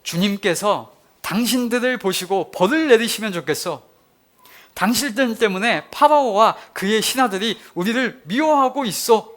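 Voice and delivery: resentful complaint. Retold or imitated. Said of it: "이렇게 말하는 거예요". (원망 섞인 큰 목소리)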